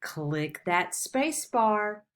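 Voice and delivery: slow, deliberate instruction; slow classroom direction. Shown as a demonstration. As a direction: spell it out slowly for kids. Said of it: "when you want to get".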